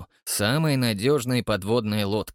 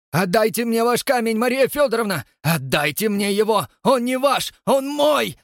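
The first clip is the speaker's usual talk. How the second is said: high, loud demand building to a shout; furious demand; 10 semitones higher, 5 dB louder than usual. Acted. Rastopchin senior screaming at Maria for her stone.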